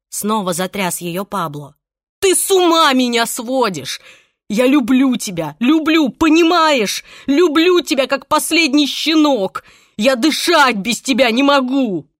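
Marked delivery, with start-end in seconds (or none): 2.2-12.1 high, loud, passionate pleading; frantic confession. A narrator's reading. Pablo to Irene, frantic loud declaration of love. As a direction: pour out obsessive love.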